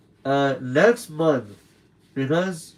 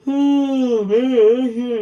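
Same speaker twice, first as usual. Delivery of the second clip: real surprise; 10 semitones higher, 7 dB louder, much slower than usual. Real, not acted. Reacts to the late hour.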